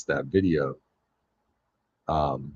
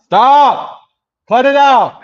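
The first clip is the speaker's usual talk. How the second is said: sharp yell at the dogs, much higher and louder; angry shout; 18 dB louder, slower than usual. Real, not acted. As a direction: yell it hard to make the dogs quit. Streamer yelling at unruly dogs.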